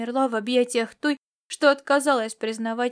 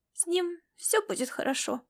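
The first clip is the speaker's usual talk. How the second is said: hopeful question; 6 semitones higher, 5 dB quieter than usual. Acted. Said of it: "спросил он с надеждой".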